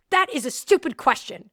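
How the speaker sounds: mildly irritated retold rebuke; annoyed. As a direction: imitate a boss annoyed at a question. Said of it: "he got so annoyed".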